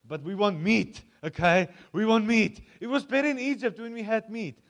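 whiny demand. Retold or imitated. Grumbling crowd demands meat.

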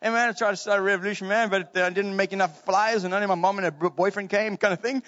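lightly imitated film character; casual, quick-starting movie quote; movie rock character. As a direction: do a light, laid-back rock-creature imitation. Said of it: "It's like that rock, you know, like in, uh, Ragnarok".

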